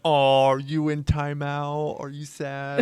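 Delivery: slow teasing mock sympathy, breaking into a laugh; slow, laughing taunt at a sulking friend; mocking baby talk. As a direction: drag it out like teasing a sulking kid. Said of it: "I made fun of him".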